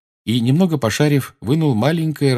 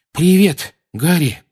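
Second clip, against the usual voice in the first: puffing, out of breath greeting; 7 semitones higher, 5 dB louder, slower than usual. A narrator's reading. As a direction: huff it out while hauling. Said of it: "пропыхтел он".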